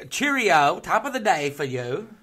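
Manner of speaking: loud, high hammy posh English; mock upper-class Brit; English accent. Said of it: "That sounds like".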